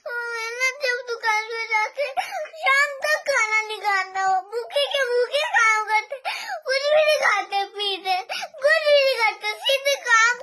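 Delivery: tearful complaint to mother; sobby pleading about papa; crying. Real, not acted. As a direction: talk through real tears. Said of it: "क्यों रो रही है?".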